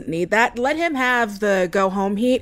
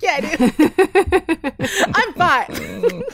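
laughing; 7 semitones higher, much slower than usual. Retold or imitated. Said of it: "I'm like".

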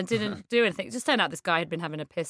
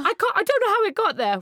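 put-on high, whining child's voice; little brother whining to mum in the car; whiny little boy; 13 semitones higher, 5 dB louder, faster than usual. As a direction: plead like a small boy in pain. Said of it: "he said".

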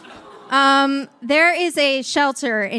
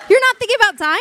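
surprised; 10 semitones higher, 7 dB louder, faster than usual. Real, not acted. Echoes a startling remark.

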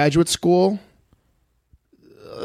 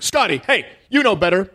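higher scolding dog-owner voice; mimicking the owner; 5 semitones higher than usual. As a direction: chide the dog in a raised pitch. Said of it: "He's like".

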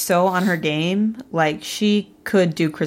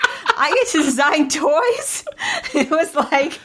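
put-on giddy Make-A-Wish kid; 9 semitones higher than usual. Ben at the toy factory, as an awestruck child. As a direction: gush like a child told his wish came true. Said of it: "Ben looked like a Make-A-Wish kid".

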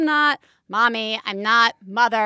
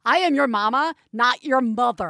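indignant. Retold or imitated. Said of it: "I was like".

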